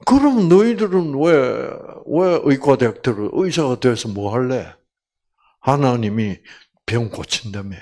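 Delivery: understated retold confrontation; mildly angry challenge. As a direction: challenge classmates with a touch of anger. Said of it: "화를 내면서".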